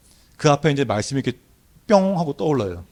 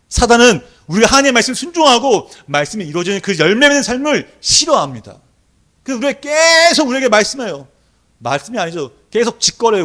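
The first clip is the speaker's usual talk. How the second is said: high, loud preacher's cry; fiery preaching; 9 semitones higher, 8 dB louder than usual. Acted. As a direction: preach it out at full force. Preaching at full force.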